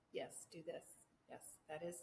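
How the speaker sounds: hushed, breathy spirit voice; soft whispered guidance. Retold or imitated. Ancestor spirit gently guiding her, in a hush. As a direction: whisper the nudge like a guide at her ear.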